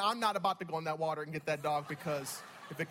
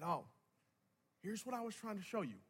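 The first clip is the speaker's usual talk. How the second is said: very soft, voiced hush; whispered word from God; 8 dB quieter than usual. God revealing the lesson to the preacher, hushed. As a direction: speak it quietly, as a private revelation. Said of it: "and he whispered to me".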